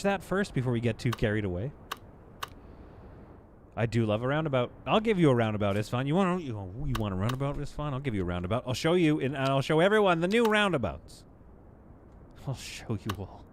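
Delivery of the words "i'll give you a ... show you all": a hammed-up British villain promising roundabouts; British accent. Teasing a viewer about roundabouts in a British accent. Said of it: "that accent took me straight back to England".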